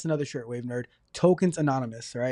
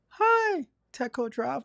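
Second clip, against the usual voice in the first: group greeting; 9 semitones higher, slower than usual. Pretend. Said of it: "we're gonna say".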